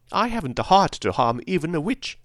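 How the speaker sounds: high, gentle-hearted tin man; Tin Woodman. A narrator's reading. Tin Woodman unwilling to harm a witch, high-pitched. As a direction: raise the voice high for a mild-natured figure. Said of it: "remarked the Tin Woodman".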